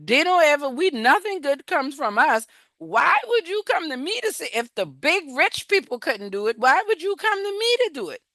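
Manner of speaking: high, protesting retelling of Gideon; doubting Gideon. Retold or imitated. Gideon asking God why choose him, high and protesting. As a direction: pitch it up in disbelief. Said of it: "And he's like".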